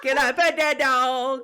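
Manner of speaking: put-on high, slow, laughing child's voice; laughing kid-voice plea; little girl voice. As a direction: ask it like an eager little girl. Imitating little girl from meme.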